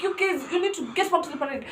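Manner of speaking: shouting deputy. Retold or imitated. Deputy ordering students back to parade, mild mock shouting. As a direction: imitate the deputy calling out, only half yelled. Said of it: "Ana shout".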